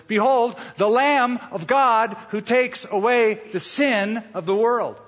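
high, loud biblical announcement; solemn herald calling out; ringing proclamation. Acted. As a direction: proclaim it slowly like a prophet. John the Baptist's proclamation quoted.

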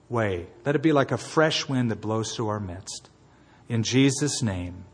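earnest, measured prayer voice; pastoral prayer. Acted. Pastor leading the congregation in closing prayer, earnest and measured. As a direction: pray over the congregation.

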